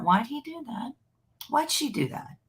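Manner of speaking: high, puzzled mock questions; confused whining. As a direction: whine it like a baffled partner. Mocking confused partners' questions.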